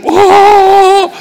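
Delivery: high, loud amazed whoa. Retold or imitated. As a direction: gasp out a stunned whoa. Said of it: "he's like".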